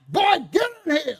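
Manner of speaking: loud, high call into the house; stern grandma shout; grandma yelling. Retold or imitated. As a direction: bark it like a grandma summoning. Grandma calling him in.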